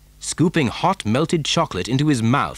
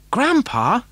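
put-on high little boy's call; Charlie crying out; 12 semitones higher than usual. A narrator's reading. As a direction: call for your grandfather in a child's voice. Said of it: "cried Charlie".

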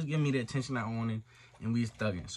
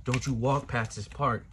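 slightly lowered, deep-voiced threat; big deep voice; 3 semitones lower than usual. Deep voice coming on the phone to warn him off, lightly imitated. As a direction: drop it a little, like a big man warning. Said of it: "fucking big-ass deep voice come on".

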